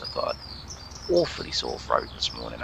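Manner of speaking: low, plummy English voice; unintentionally very English delivery; posh English accent. Real, not acted. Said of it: "that was very English".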